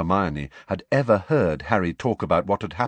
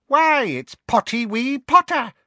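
much higher, slow, cackling mischief-maker; cackling poltergeist; 5 dB louder than usual. A narrator's reading. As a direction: crow it with nasty poltergeist glee. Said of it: "cackled Peeves".

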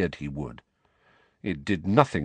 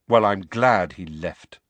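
cold; 5 dB louder than usual. Acted. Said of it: "Harry said coldly".

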